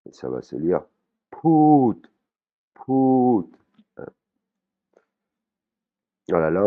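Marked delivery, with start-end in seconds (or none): 1.3-3.5 « pout » plus haut, tenu, qui descend; voyelle longue thaïe. Shown as a demonstration. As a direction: chante « pout » haut et long. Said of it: "c'est bien une voyelle longue". (prononciation thaïe, voyelle longue qui tombe)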